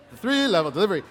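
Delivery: imitating BBC news delivery; a hint of a British newsreader; one-level BBC delivery. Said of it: "I was just doing one level".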